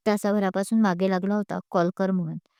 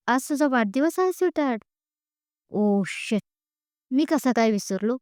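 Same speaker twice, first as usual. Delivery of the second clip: excited; 3 semitones higher than usual. A narrator's reading. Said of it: "तो उत्साहात बोलतो".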